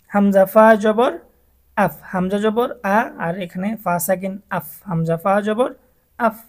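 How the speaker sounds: আফ pushed up with a rising jolt; push upward. Shown as a demonstration. Teacher shows the upward push of jabar. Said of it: "উপরের দিকে ধাক্কা দেওয়া হবে".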